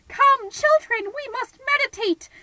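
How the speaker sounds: put-on high, loud call to the children; shouted call. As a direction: shout it out, summoning the kids.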